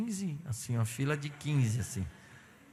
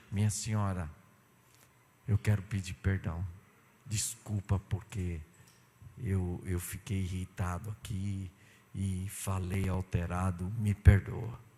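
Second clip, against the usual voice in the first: humble apology; 8 semitones lower than usual. Retold or imitated. Pastor apologizes to the clerk, low and humble. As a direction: ask her pardon humbly. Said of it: "falei pra mulher".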